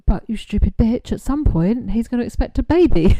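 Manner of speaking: loud exasperated yell at a friend; mock shout. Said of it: "And you're like".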